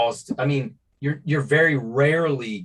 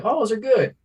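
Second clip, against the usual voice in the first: higher-pitched pleased recall; mildly delighted reaction; 10 semitones higher than usual. Retold or imitated. Co-host recalls his second taste of burnt ends, mildly delighted. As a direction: recall being won over, pitched up. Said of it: "So the second time".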